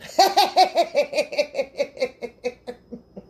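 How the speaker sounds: long cackling fit trailing away; rapid staccato laughter; real laugh. Real, not acted. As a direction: crack up until breath runs out. Laughs at own joke.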